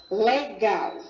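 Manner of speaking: LEGAL in two separate beats, LE-GAL; syllable by syllable. Shown as a demonstration. Teacher presenting the first word, LEGAL carefully split. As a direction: sound out LEGAL with weight on GAL. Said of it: "A primeira palavra".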